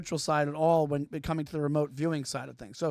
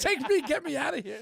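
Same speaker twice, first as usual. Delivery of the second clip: put-on old borscht belt comic; 8 semitones higher than usual. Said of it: "You became a Catskills comic".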